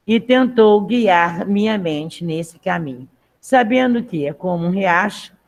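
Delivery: measured text read aloud to the class. Acted. Teacher reading the text aloud to her class, measured. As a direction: read the passage clearly for students.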